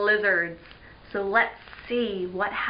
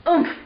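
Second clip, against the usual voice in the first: short loud grunt of impact; moaned; 6 semitones higher, 6 dB louder than usual. Acted. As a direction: grunt as you hit the ground. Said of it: "Eric moaned".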